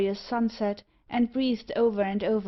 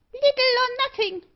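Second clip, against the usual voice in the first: much higher piercing bird squawk; screeching parrot; 6 dB louder than usual. Acted. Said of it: "screamed Meg".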